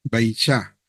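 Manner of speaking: Beicha said low and clearly, stress on bei, ending in cha; Hebrew reading. Shown as a demonstration. Teacher modeling Hebrew for students, low and deliberate. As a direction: model the word Beicha for the class. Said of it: "¿cómo leemos?".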